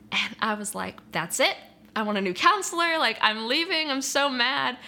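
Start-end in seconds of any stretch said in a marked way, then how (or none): 1.1-4.8 imitating her younger self, higher and louder in a huff; mock angry outburst. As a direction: reenact an indignant tantrum, half-hammed. Storming off after the counselor's words.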